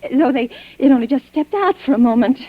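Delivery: trembling voice, barely holding together; shaken stammer. Acted. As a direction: stumble over the words, rattled. Shaken woman stammering at dead woman's room.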